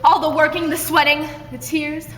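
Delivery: loud, high, hammed-up accusation; over-the-top stage rage; mock loud anger. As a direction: shout the grievance melodramatically. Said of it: "the louder and angrier you get".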